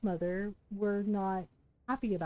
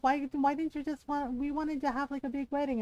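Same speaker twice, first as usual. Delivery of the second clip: mildly pissy retold complaint, a bit higher; 4 semitones higher than usual. Mother-in-law complaining about the missed big wedding, mildly pissy. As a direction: lightly imitate a miffed mother-in-law. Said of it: "like, really pissy".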